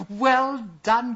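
high, loud cheer; delighted cry. A narrator's reading. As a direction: cheer him on, thrilled. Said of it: "cried the princess".

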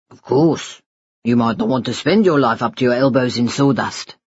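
tender father. Acted. Father promising his baby son a future, tender.

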